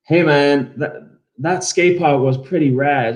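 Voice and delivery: lazy American surfer drawl; laid-back American dude, slowed; American accent. Pretend. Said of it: "I can't do it".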